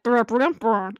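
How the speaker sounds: mock gibberish burble; garbled-name noise. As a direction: blur unfamiliar names into a trilled "brr". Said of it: "all of these names sound like".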